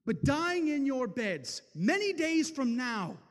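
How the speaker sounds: rally the outnumbered peasants, rising to a loud call; William Wallace's rallying speech. Acted. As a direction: Wallace to his Scottish peasants before battle, building rousing. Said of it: "stealing a line from one of my favorite movies".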